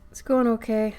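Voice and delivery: hoarse, cracking smoker voice; crackly voice. Real, not acted. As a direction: voice breaking in and out. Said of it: "my voice crackles in and out".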